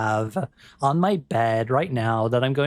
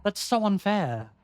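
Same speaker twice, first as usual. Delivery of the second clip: playful protest; 8 semitones higher than usual. Real, not acted. Protests a double quote unfairly.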